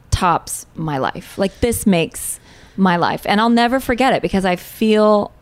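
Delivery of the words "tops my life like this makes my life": slow, hushed wonder; awed, slow. Retold or imitated. Looking at her newborn, slow and awed. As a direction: savour each word in awe. Awed memory of holding baby.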